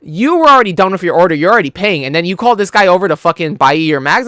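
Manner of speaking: retold anger. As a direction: act out telling off a line-cutter. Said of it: "Like, I got mad".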